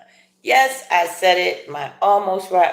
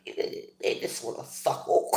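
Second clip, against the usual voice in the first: laughing mumble; 7 semitones lower, 9 dB quieter than usual. Real, not acted.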